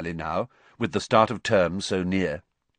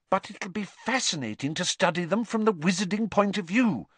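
earnest; 11 semitones higher than usual. A narrator's reading. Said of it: "said Hermione earnestly".

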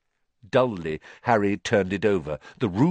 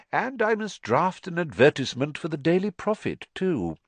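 thoughtful; 10 semitones higher than usual. A narrator's reading. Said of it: "he added thoughtfully".

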